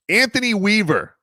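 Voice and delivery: big segment-host name introduction; announcer intro. Real, not acted. Host introducing the next clip's speaker, announcer intro.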